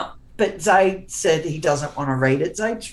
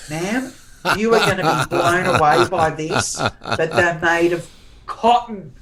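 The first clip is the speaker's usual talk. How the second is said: deadpan clerk; 4 dB louder than usual. Retold or imitated. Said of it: "the way he delivered it".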